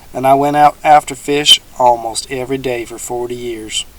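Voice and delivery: a hint of a folksy old swamp dweller; teasing old man, lightly voiced.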